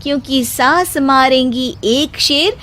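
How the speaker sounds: daughter-in-law firing back a couplet at her mother-in-law; daughter-in-law's couplet. Acted. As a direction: answer in verse with a triumphant flourish. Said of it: "शायरी का तीर छोड़ा".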